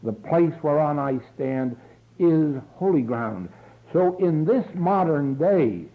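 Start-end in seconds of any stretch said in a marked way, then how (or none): 0.0-3.5 slow reverent affirmation. Acted. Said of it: "but you will say".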